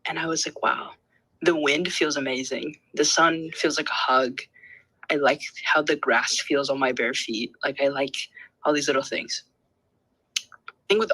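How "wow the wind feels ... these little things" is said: retold gentle wonder. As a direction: marvel gently at small things. Retells calm awe after going outside.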